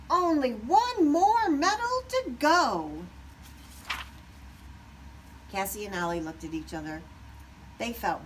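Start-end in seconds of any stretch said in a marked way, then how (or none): 0.1-3.1 gloating. A narrator's reading. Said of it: "Wing shouted".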